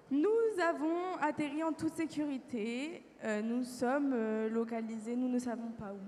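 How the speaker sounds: slow, measured official report; formal report. Acted. Recording the emergency landing for science, formal report. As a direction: deliver a halting log entry, drawn out.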